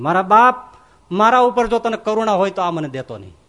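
loud imploring cry; begging plea. Retold or imitated. Sadhu begs God not to grant the power, loud imploring. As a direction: beg him not to give it.

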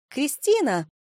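high squeal of a name. A narrator's reading. Old friend spotting Kristina in the club, squealing. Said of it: "Взвизгнули рядом".

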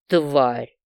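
low, venomous hiss; angry hiss. A narrator's reading. Wounded Valet hisses an insult at the girl. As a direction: spit it out through the teeth. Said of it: "злобно прошипел он".

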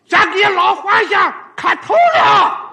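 high, loud, odd put-on bumpkin voice; weird strange voice. Sun kneels before the emperor, high, loud and odd. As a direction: bellow it in a bizarre off-kilter tone. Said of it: "怪声怪气".

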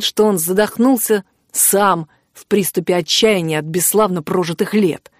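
ordinary delivery, nothing marked

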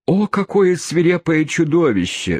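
high-pitched mock squeal; hammed-up shrill exclamation. A narrator's reading. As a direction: squeal it in horror, well up high. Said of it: "взвизгнула другая воспитательница".

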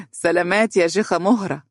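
mocking chuckle, then a sarcastic farewell. A narrator's reading. Groom mocking his bride as she leaves to pray, sarcastic. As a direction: tease her with a smirk in the voice. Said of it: "ابتسم ساخرا وقال".

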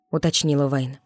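ordinary delivery

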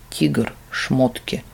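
slow, soft, lecturing; instructive tone. Acted. Demon instructs the monk, slow and lecturing. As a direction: spell it out like a patient teacher. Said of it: "наставительным тоном сказал".

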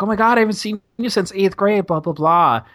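high, gushing imitation of a stranger; mock gushing reunion. Two strangers reunite across from him, mock gushing. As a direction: gush like bumping into a school friend.

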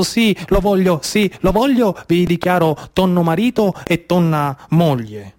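a hint of a solemn priest, slowly; lightly voiced priest asking the vows; mock priest. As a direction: pretend to officiate a wedding, lightly. Plays priest marrying the tuna.

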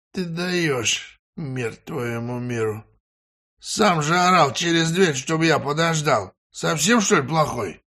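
высокий голос простоватого приятеля; упрекает приятеля с весёлым недоумением; Валерка, насмешливо. Acted. Валерка отчитывает Ивана. (высокий насмешливый голос Валерки)

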